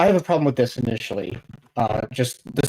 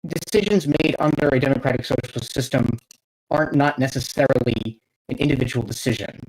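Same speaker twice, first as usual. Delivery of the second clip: normal talking voice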